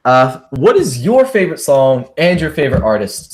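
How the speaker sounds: a crack breaks into the voice. Real, not acted. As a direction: voice cracking mid-question. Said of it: "Sorry for the voice crack".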